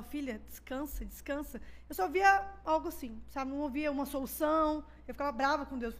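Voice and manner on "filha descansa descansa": God soothing her. Retold or imitated. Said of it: "E Deus falava".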